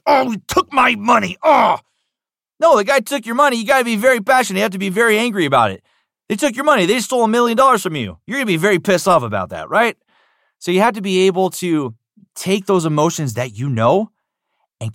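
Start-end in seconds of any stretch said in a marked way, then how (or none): 0.0-1.8 high, loud but half-hearted shout; only partly angry; half-hearted anger. Shown as a demonstration. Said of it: "partially being angry". 2.6-12.7 passionate urging. Real, not acted. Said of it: "coach urging passion".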